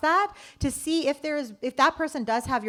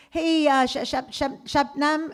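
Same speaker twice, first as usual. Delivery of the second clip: stumbling over the name in a mock older man voice; lightly voiced old board member mangling a name; 5 semitones higher, slower than usual. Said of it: "one of the men from the board goes".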